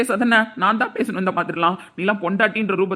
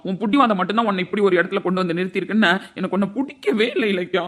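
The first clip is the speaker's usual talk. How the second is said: normal talking voice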